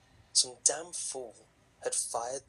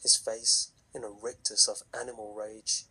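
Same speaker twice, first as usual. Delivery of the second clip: story narration. A narrator's reading. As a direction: tell it like a campfire horror story.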